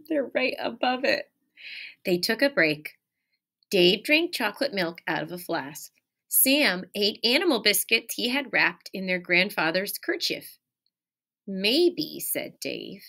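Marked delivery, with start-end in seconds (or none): 2.0-13.0 lively, expressive read-aloud; animated picture-book reading; reading to children. Acted. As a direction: read it like storytime for little kids. Teacher reads picture book aloud.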